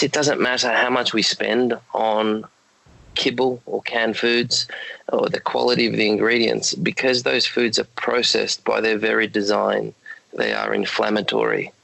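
hoarse, croaky late-night voice. Real, not acted. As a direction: talk through a croaky throat. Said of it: "excuse my croaky voice".

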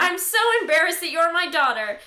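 a touch of an appalled parent; mock shaming. Dad disowning his accused daughter, lightly mock appalled.

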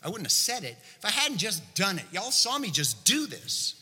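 lightly acted exasperated reply; acted emphatic retort. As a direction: answer back as if it's obvious. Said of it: "To which Jesus could have responded".

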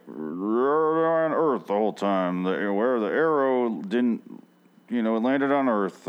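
slow, drawn-out narrator impression; a lightly voiced slow solemn narrator; put-on Rod voice. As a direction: draw it out like a solemn host. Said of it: "I don't know why I'm doing that voice for him".

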